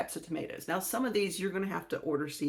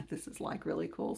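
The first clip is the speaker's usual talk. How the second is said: mock Valley Girl, sarcastic; 5 dB quieter than usual. Shown as a demonstration. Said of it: "I did the fake Valley Girl voice to be sarcastic".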